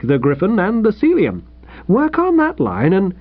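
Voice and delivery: mildly paternal, lilting encouragement; kindly. Acted. Editor advises a rejected old pal, kindly. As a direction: let him down kindly, then cheer him on. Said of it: "he said kindly".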